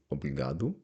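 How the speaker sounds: «обрігаду» ending in a clear u; teacher models the male form «обрігаду». Shown as a demonstration. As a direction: say «обрігаду» as a man would. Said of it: "якщо я чоловік кажу".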